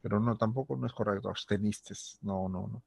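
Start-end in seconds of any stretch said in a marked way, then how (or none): none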